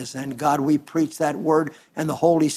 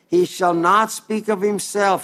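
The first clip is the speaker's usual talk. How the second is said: "not" lifted high and held; preacher's emphatic repeat, "not" hit hard; stress on NOT; 4 semitones higher than usual. Acted. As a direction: drive home "not" as the point of the verse. Preacher repeats key verse.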